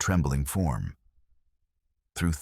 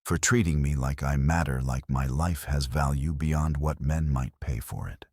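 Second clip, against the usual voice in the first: touching honesty; 2 semitones lower than usual. Acted. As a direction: tell him honestly, with feeling. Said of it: "then finished with touching honesty".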